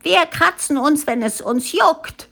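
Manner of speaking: high-pitched youthful protest, only mildly shouted; protesting cry. A narrator's reading. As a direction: cry back defiantly as a crowd of youngsters. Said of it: "schrien die jungen Mädchen und jungen Männer".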